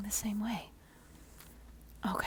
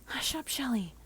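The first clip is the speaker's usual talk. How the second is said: 1 stern demand; 3 semitones higher than usual. Acted. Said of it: "you demand".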